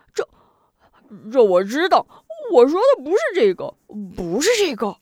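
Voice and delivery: high, loud, rushed insistence; he can't get his point across. A narrator's reading. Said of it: "龙彪更加着急". (更加着急，又高又快地辩解)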